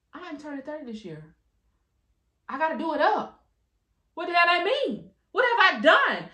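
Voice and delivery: inner thoughts spiralling as thirty nears, rising panic; panicked inner voice. Retold or imitated. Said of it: "I'm thinking to myself".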